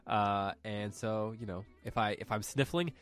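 nasal from a cold; stuffy nose. Real, not acted. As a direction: talk through a blocked nose. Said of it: "extra nasally this week".

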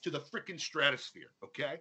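mock grudging praise. Mock grudging praise, rising pitch.

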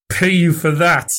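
a strange, unfamiliar voice; ghostly hoarse voice. A narrator's reading. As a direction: croak it out, appalled at the idea. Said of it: "Fettes found a voice, the ghost of his own".

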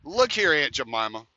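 fed-up retold outburst; retold telling-off. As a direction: tell her off, hammed-up for the story. Retells telling woman off.

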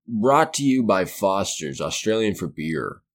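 slow, hammed-up Australian accent ad voice; mock Australian ad read. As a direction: play a fake Australian beer commercial, slowly. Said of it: "I can't do an Australian accent".

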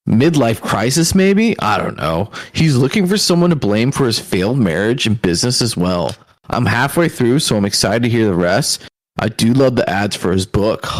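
snarky internet troll voice. Acted. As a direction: read it like a sneering commenter. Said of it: "try and be like an internet troll voice".

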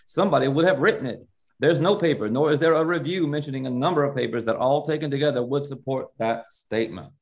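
put-on quoting in a light Southern accent. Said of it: "I need to get my Southern accent really on for this".

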